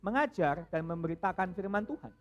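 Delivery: loud, measured Bible reading; scripture reading. Acted. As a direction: read the passage to the congregation. Membaca Alkitab. (membaca firman dengan khidmat)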